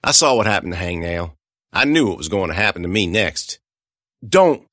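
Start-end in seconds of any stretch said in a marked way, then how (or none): 4.3-4.7 warning shout. Acted. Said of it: "I said".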